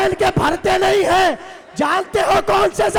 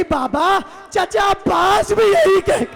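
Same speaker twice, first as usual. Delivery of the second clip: wailed appeal breaking at the end; anguished child's cry; 2 semitones higher than usual. Retold or imitated. Sakina answers her father in anguish, wailing cry. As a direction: cry out as a distraught little girl. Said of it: "تڑپ کر کہنے لگی".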